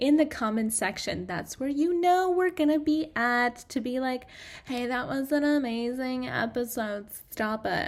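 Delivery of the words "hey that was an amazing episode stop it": put-on slower valley girl accent. Podcast host showing listeners how to comment, valley girl voice. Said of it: "I want you to have this kind of accent".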